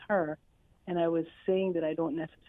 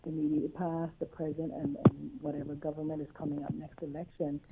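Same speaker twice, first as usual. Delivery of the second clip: muffled, as if hand over mouth. Real, not acted. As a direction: talk through a covered mouth. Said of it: "you sounding quite muffled".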